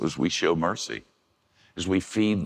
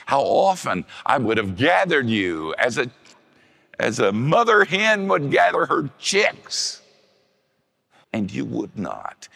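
high, loud, breaking voice of grief; weeping lament; 8 semitones higher, 5 dB louder than usual. Acted. Preacher voicing Jesus weeping over Jerusalem, high and breaking. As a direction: cry it out like a grieving parent.

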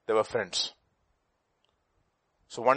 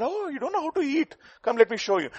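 a hint of a smug duck; 13 semitones higher than usual. Duck mocks flamingo.

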